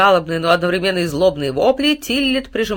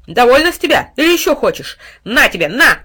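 furious yelling; 6 semitones higher, 9 dB louder than usual. A narrator's reading. Dog keeps beating the cat.

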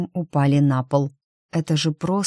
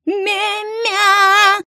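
much higher yowling cat cry; 4 dB louder than usual. A narrator's reading. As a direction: wail like a terrified cat. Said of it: "вытаращил глаза и взвыл". (испуганный кошачий вой)

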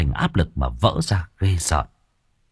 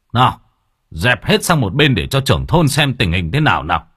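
raised voice; 3 semitones higher than usual. Acted. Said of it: "Ông liền cao giọng".

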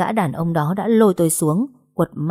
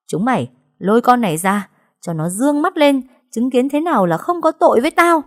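higher, louder order to thugs; commanding shout; 6 semitones higher, 4 dB louder than usual. Acted. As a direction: bark orders at her men. Villain orders her men. (chị Hạnh ra lệnh, quát lớn)

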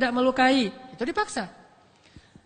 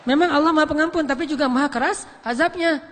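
forceful preaching; 5 dB louder than usual. Acted. Preacher stressing God's severity.

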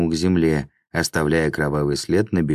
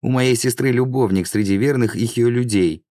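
higher-pitched fearful outburst; frightened cry; 6 semitones higher than usual. A narrator's reading. Laam confesses to his attacker, frightened. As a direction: blurt it out in fear, pitched up. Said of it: "в страхе заорал Лаам".

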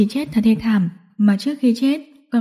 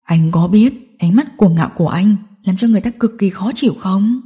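menacing villain; 2 semitones lower than usual. Acted. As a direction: needle him as the villain. Voices the villain in the story.

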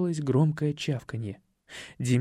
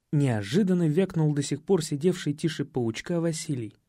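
usual speaking voice

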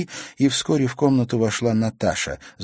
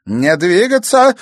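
loud, higher, slow menacing order; hissed threat; 11 semitones higher, 10 dB louder, slower than usual. Acted. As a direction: freeze them with a threat. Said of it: "прошипела Евдокия".

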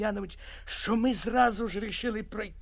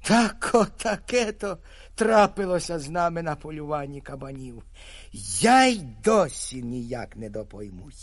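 usual speaking voice

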